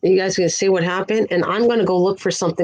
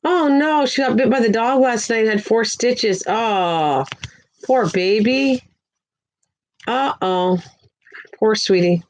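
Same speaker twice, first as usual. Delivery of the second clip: higher, startled oh no then pity; sympathetic dismay; 3 semitones higher, slower than usual. Real, not acted. Hearing the viewer's child was bitten, dismayed and sympathetic. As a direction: react with real dismay and sympathy. Reacting to dog bite news.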